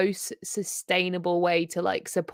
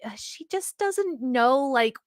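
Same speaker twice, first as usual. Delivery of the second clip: put-on Valley Girl; 3 semitones higher, 4 dB quieter than usual. Shown as a demonstration. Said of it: "that's how I characterize the Valley Girl thing".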